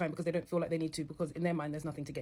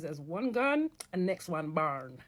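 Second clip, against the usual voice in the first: put-on a light, quick Jamaican accent in passing; much slower than usual. Joking to viewers about men, in a light Jamaican accent. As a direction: drop into a brief Jamaican accent for the joke. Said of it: "That was my Jamaican accent".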